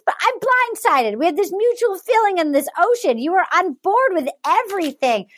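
imitated upset woman. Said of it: "She goes".

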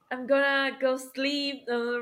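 slow, lazy American gonna; I'm gonna go sleep in a drawled American accent. Retold or imitated. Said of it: "不是，Today".

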